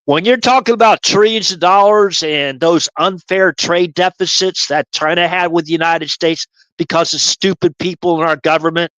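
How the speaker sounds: lightly voiced gruff drill sergeant, lecturing his private; a hint of a barking Marine sergeant explaining patiently; mild drill-sergeant lecture to a private; Sergeant Carter. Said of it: "I don't have Sergeant Carter down".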